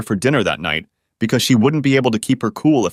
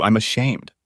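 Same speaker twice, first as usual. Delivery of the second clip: mournful. A narrator's reading. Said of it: "sounded much more mournful".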